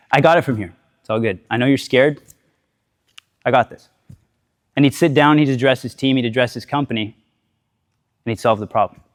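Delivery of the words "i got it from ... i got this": calm reassurance. Retold or imitated. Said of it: "He'd be calm".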